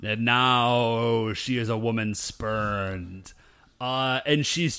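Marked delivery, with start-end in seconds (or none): 0.0-3.3 slow, weighty trailer voice; slow mock-epic narration; dramatic narrator. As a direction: announce it like a movie trailer.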